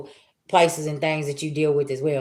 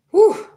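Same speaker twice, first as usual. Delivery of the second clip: sharp high whew of exasperation; short high huff of exasperation; exasperated whew; 14 semitones higher, 5 dB louder than usual. Retold or imitated. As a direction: blow it out, fed up. Exhaling at the irritating energy.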